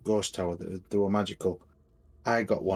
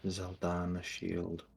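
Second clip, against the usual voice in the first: slow, measured and a little softer; slow repeat; 7 dB quieter than usual. Shown as a demonstration. Player repeats the shield's name on request, slowly. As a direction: say it slowly, drawing out the words. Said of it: "say it again slowly".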